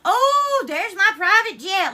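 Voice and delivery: overwhelmed by a gift, voice breaking; tearful delight. Real, not acted. Streamer gasping at Logan's private-jet gift, tearfully thrilled. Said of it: "Y'all gonna make her cry".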